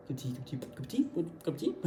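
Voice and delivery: softly trying out "cup of tea", rising at the end; puzzled repeating. Acted. Learner fails to make out the English, puzzled soft repetition. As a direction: mull it over under your breath. Confused listener puzzling over the phrase.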